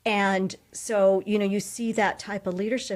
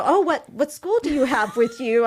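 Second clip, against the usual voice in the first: mock surprised colleague; 6 semitones higher, 6 dB louder than usual. Voicing a colleague's question.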